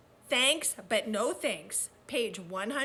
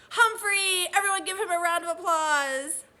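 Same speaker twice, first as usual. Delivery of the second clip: excited greeting; 4 semitones higher, 5 dB louder than usual. Real, not acted. Teacher greeting Humphrey in front of the class, loud and excited. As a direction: call his name out loud and high, thrilled.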